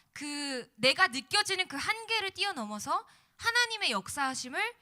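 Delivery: loud, rising preacher's exhortation; preaching. Acted. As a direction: preach it out to the congregation. Sermon climax, full-force preaching.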